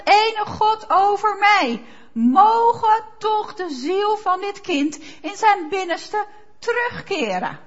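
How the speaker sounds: loud, slow, high cry to God. Acted. Preacher voicing Elijah crying out over the dead child, loud and slow. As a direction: call out to God with full force. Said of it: "Hij schreeuwt het uit".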